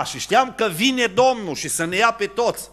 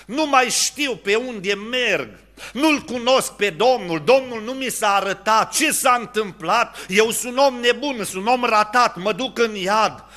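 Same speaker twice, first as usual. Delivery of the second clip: retold anguished crying out; 5 semitones higher than usual. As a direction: call out lost and desperate, half-performed. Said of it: "am început să plâng și am început să strig". (strigăt disperat, mai înalt, jucat moderat)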